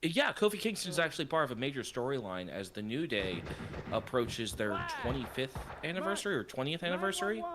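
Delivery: announcer voice, building hype; wrestling commentator. Pretend. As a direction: call it like a ringside announcer. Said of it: "you even said that like a commentator".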